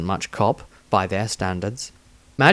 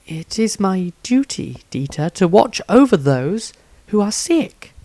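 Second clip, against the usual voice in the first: put-on higher girl's voice, firm and insistent; determined young healer; 9 semitones higher than usual. Healer refuses to leave her patients, higher and stubborn. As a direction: refuse him, holding your ground.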